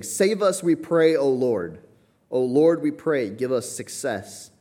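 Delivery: high, loud psalm cry. Retold or imitated. David crying to the Lord, high and loud plea. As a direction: lift it up like a desperate prayer. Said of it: "David saying".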